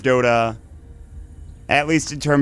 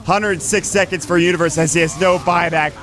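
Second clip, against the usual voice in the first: play-by-play; 3 semitones higher than usual. Acted. Live Dota game cast.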